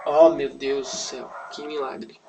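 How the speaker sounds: half-hearted slow "oh my God" wonder; badly acted amazement. Onlookers seeing the girl wake, half-hearted acted amazement. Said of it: "Eu não sou bom em atuação".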